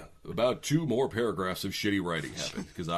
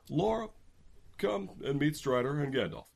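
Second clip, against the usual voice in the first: Legolas voice; 7 semitones higher than usual. Acted. Legolas voiced in read story.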